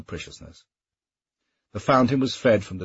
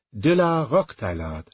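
annoyed; 4 semitones higher than usual. Acted. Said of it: "annoyance creeping into his voice".

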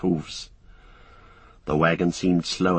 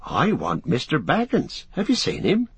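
muffled voice; 6 semitones higher than usual. Acted. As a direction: voice muffled by a scarf. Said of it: "said a muffled voice".

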